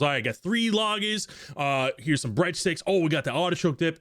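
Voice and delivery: a busy barkeep humouring a regular; high, obliging innkeeper taking the order; eager barkeep. Acted. Monson lays out food.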